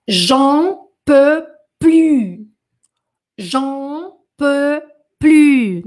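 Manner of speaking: "plus" said "plu", no final S, slow and loud; silent S in plus. Shown as a demonstration. Teacher shows students the silent S in "plus". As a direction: stretch "J'en peux plus", ending on a silent-S "plu". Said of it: "Não falo o S do plus".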